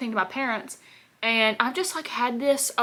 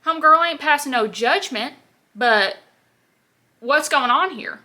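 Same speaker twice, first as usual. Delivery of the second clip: higher, louder sassy call-out, slowing at the end; retold sass; 5 semitones higher, 6 dB louder than usual. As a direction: confront her with mock attitude, slowing on the last line. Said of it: "And I'm like".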